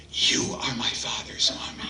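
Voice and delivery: put-on breathy whispered child's reply. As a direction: whisper it shyly. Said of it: "the boy's voice was just a whisper".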